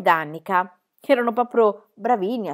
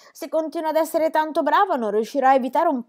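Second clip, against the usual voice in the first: put-on cheeky girl voice; 7 semitones higher, 4 dB louder than usual. Pippi closing remark.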